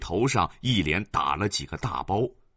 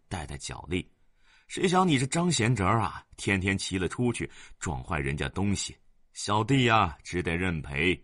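put-on weary old man. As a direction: sigh out the complaints. Zhang complains to elder brother.

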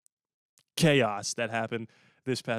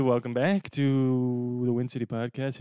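radio voice; 6 dB louder than usual. Acted. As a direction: announce it like a DJ. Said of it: "I'm doing my radio voice".

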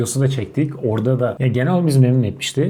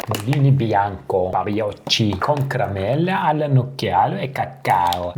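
Italian accent. Shown as a demonstration. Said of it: "Biraz İtalyancamla".

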